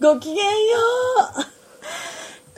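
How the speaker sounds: put-on high, lightly posh young lady; haughty rich girl japanese. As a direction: greet like a refined heiress. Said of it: "お嬢様風で".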